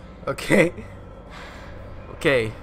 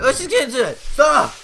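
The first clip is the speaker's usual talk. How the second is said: higher-pitched eager launch; very excited; 4 semitones higher than usual. Real, not acted. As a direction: burst into it, ending on a yelp. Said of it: "Very excited".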